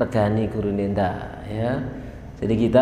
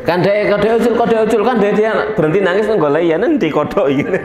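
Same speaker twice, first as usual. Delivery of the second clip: animated retelling; 7 semitones higher, 4 dB louder than usual. Retold or imitated. Parent distracts child with frog.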